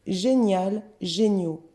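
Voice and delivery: "génial" ends in al, "géniaux" in an o sound; teacher contrasting the endings of "génial" and "géniaux"; changed pronunciation. Shown as a demonstration. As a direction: model "génial", then "géniaux" with silent x. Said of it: "Attention à la prononciation".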